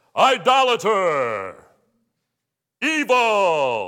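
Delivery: big thundering, booming voice, very loud. A speaker acts out the church just standing there, in his big voice. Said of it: "That's my big voice".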